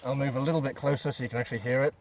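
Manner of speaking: muffled behind a respirator, diaphragm buzzing; through a gas mask. Real, not acted. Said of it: "As you may be able to hear".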